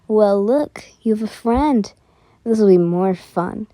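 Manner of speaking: a hint of creepy menace, dropping low. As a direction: put on a mildly creepy guy voice. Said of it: "I gotta do a creepy voice".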